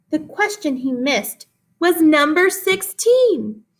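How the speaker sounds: lively read-aloud with big rises in pitch; expressive poem reading. Acted. Teacher reading a poem to her class, animated read-aloud. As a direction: read it like a storybook poem for kids.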